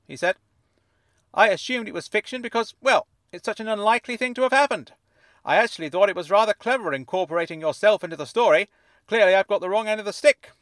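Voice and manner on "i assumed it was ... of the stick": high, fuzzy voice like it's underwater; fuzzy fish tank voice. A narrator's reading. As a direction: speak as if from inside a fish tank. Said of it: "as though he were speaking from the inside of a fish tank".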